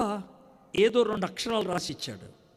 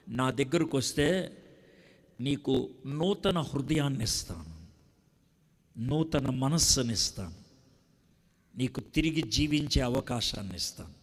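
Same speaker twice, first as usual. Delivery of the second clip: Jesus's promise, gently; 4 semitones lower than usual. Acted. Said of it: "యేసయ్య చెప్పేటువంటి మాట".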